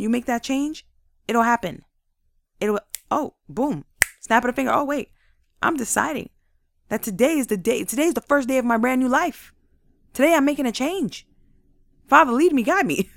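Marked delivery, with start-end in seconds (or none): 4.7-13.1 higher, louder, fired-up prayer; a burst of hopeful decision, then a plea to God; excited resolve. Pretend. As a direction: declare it like a brand new start. Acting out the moment of deciding.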